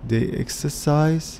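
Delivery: drawn-out words, slowly dictated; slow answer modelling. Shown as a demonstration. Teacher feeding the answer to pupils, slowly. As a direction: stretch it out for learners to copy.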